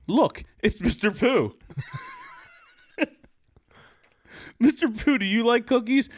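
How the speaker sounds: put-on high-pitched, excited girlish voice; high, eager little girl voice; eager Susie. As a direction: sweetly tempt him. Susie character voice.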